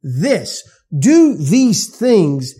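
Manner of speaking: loud, slow, hammered list of demands; mock demand. Preacher mimicking religion's demands, loud and slow. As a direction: preach the rule list like a taskmaster. Mocking works-based religion.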